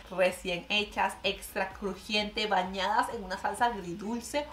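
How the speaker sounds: savoring slowly. Real, not acted. Vlogger dreaming of McDonald's fries, slow and relishing. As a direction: linger on each word like a craving.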